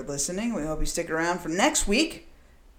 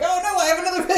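higher mock gasp, hammed-up; mock horrified monster; 11 semitones higher, 5 dB louder, faster than usual. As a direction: play the shocked demon, higher.

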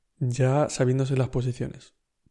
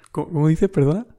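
a puzzled, laughing "what?" that goes louder; baffled and giggling at the strange words; laughing disbelief; 2 semitones higher, 5 dB louder, faster than usual. Retold or imitated. Reacting to the stranger's advice, laughing in disbelief.

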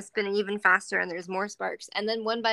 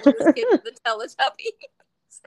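a touch of mock anger; imagined grumbling that builds louder; fed-up ranting; 7 dB louder than usual. Host voicing Sandy stuck filming the kid, fed-up ranting.

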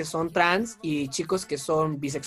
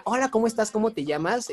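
put-on friendly greeting to a girl; 4 semitones higher than usual. Shown as a demonstration. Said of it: "Es más fácil que yo llegue contigo y te diga".

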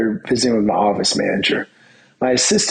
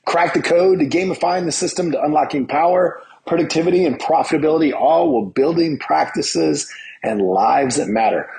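slightly raised, upbeat host greeting; lightly announced podcast opening; show intro; 4 semitones higher than usual. Acted. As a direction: open the show like a practiced presenter. Opens the show with set intro.

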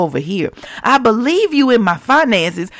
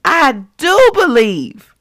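a slow, pleading cry, louder and higher; desperate cry; 5 semitones higher, 5 dB louder, slower than usual. Acted. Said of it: "cried out with a desperate, piercing cry".

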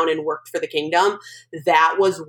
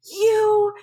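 retold angry scream; 12 semitones higher than usual. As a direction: mimic yourself screaming at your mother, mock-hysterical. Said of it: "screamed at her".

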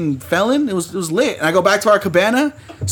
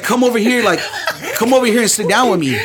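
higher-pitched imitation of a woman beckoning; imitated woman's invitation; 6 semitones higher than usual. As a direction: lightly mimic her calling you over. Voicing the woman calling him over.

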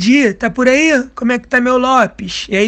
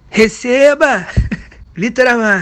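stage announcer. Shown as a demonstration. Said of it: "Agora é a hora que eu apresento".

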